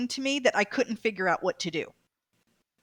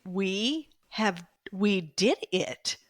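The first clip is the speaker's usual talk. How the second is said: whispered in awe; 2 semitones lower, much slower than usual. Real, not acted. Awed at finishing the ride.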